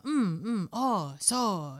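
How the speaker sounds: swooping Japanese listener noises; hum, then agree in Japanese intonation; Japanese agreement. Shown as a demonstration. Showing how Japanese listeners agree, swooping Japanese intonation. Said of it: "it's like an agreement".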